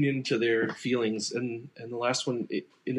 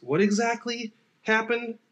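questioning; 5 semitones higher than usual. Retold or imitated. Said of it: "just a lot of questions".

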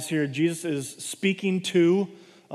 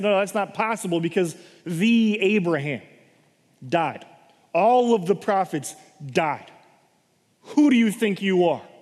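indignant accusers. Acted. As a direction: confront him as an upstart. Jewish leaders challenging Jesus.

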